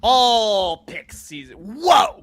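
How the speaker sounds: high, loud outraged whoa; shocked whoa. Real, not acted. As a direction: react in mock outrage. Outraged at Eagles pick.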